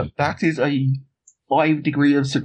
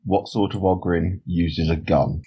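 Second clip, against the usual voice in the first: low, dry deadpan; 5 semitones lower than usual. Acted. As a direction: say it bone dry, unimpressed. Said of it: "in the ultimate deadpan, dry voice".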